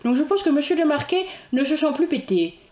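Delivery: lightly pompous high judge voice; a touch of self-important judge; Monsieur de Marquet. Acted. Mocking the puffed-up judge, lightly high voice. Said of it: "le personnage le plus savoureux à interpréter".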